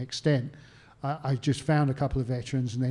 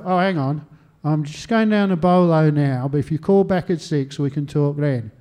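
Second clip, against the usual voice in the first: offhand veteran; 2 semitones higher, 7 dB louder than usual. Retold or imitated. Acts veteran putting off the caller.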